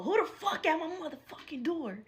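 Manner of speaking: hushed, alarmed whisper at the door; a startled whispered question. Retold or imitated. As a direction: breathe it so no one outside hears.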